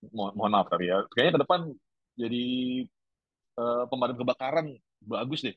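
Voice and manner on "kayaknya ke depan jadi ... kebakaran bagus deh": higher-pitched musing voice, playing someone guessing the future; guessing student. Teacher voices a student guessing future jobs, lifted musing tone. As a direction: toss out a hunch in a lifted, musing voice. Voicing an intuition-based guess.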